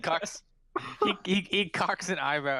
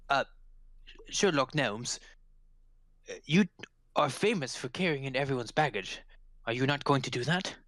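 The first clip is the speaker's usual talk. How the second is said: halting, formal questioning; puzzled constable. Acted. Constable querying Sherlock Gnomes about the baggage, puzzled politeness. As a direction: ask with polite hesitation. Game master plays the constable.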